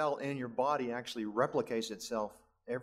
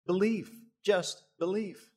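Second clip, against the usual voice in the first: urgent plea; 6 semitones higher, 4 dB louder, slower than usual. Retold or imitated. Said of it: "to say".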